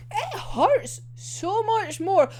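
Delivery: slow, high-pitched lament; pained fangirl wail. Real, not acted. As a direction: wail it, drawing out the words. Pained by the gunshots scene.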